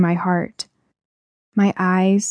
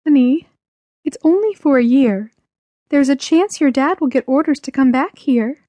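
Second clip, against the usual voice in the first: higher-pitched mother's voice; consoling mother; 6 semitones higher than usual. Acted. Mother giving her weeping child hope, higher consoling voice.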